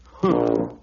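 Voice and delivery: low dismissive huh; a deep bored grunt; unimpressed grunt. Acted. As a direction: elephant shrugging off the bear's playing. Elephant unimpressed.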